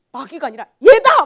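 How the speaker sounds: mock-furious shout about the caller; furious realization. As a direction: yell out the comic outrage. Retells her furious thought.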